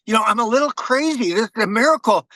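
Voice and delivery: mock yell of a crazy Marine; crazy Marine shouting. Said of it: "he says".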